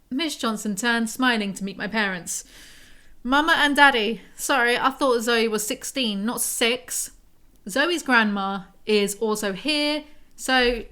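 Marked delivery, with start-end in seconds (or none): 3.2-7.1 mocking Southern mum.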